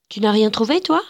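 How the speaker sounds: put-on mild, courteous little-girl question; polite child's question. A narrator's reading. Blonde child asking the empty-handed girl, polite. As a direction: ask it politely, as a child would. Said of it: "lui demanda l'enfant blonde avec politesse".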